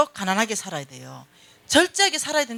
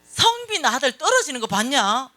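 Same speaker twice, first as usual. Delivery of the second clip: brash retort; 4 semitones higher, 4 dB louder than usual. Retold or imitated. Friend's brash retort, re-enacted on phone.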